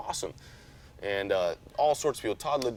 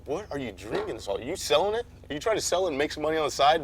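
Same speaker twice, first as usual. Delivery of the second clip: mock emailer; 6 semitones higher than usual. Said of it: "they always email me".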